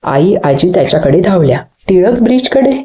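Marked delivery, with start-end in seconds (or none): 1.9-2.7 high, rising, astonished question; surprised echo. A narrator's reading. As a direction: repeat it back in disbelief. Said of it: "आईला आश्चर्य वाटलं". (चकित होऊन उंच स्वरात प्रश्न)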